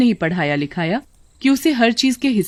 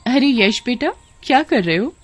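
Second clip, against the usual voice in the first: higher, sweet-talking mother; coaxing mother; 5 semitones higher than usual. Acted. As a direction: call to a child with a lilting question. Scheming mother addresses boy. (बेटे को पुचकारती माँ)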